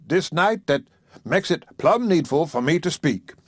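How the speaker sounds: a hint of a pompous suitor; earnest preacher. Haywood preparing his proposal.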